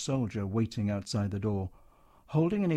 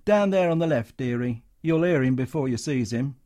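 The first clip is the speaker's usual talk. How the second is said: Cockney showgirl; 5 dB louder than usual. Acted. Actress directing Matron.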